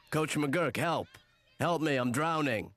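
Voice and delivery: drowning swimmer. Acted. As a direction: call out as if drowning. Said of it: "I like when you do both parts".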